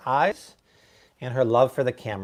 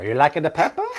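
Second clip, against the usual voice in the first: put-on Pepper Boy. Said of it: "Pepper Boy always makes an appearance".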